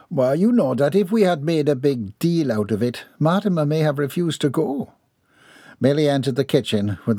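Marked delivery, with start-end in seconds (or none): 0.1-4.9 higher, prim Southern lady; ladylike voice. Acted. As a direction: speak as a proper, composed matron.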